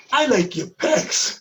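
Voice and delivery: mimicking Lisa. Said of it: "she goes".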